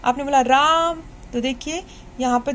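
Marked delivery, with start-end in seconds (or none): 0.4-1.0 राम called louder and drawn out; calling out. Shown as a demonstration. Teacher demonstrating a long call of राम to children. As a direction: call राम across the room, long vowel. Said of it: "triple आवाज़ आती है".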